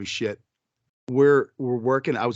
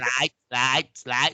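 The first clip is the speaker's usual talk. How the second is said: lightly mimicked stutter; scratched-record stutter; slower than usual. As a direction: stick on slice like a scratched record. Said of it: "like somebody was scratching on a record".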